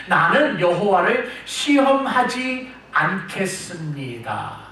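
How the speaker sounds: slow, show-off refusal; mock a king pleased with himself; preacher imitates king Ahaz being smug; smug, self-important. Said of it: "아주 잘난 척하면서 이렇게 이야기합니다".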